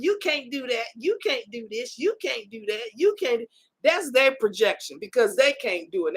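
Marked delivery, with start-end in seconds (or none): 0.0-3.4 softer, put-on naysayer voice, dismissive; mock the doubters quietly, brushing her off; mimicking naysayers. Vlogger mimics naysayers who doubt her, softer mocking voice. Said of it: "naysayers in your ear talking about".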